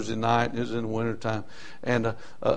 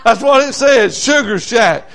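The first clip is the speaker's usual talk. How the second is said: high, loud, cackling over the name; laughing; 9 semitones higher, 6 dB louder than usual. Real, not acted. Preacher laughing with the church about the Sugar Shack. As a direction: laugh it out, tickled.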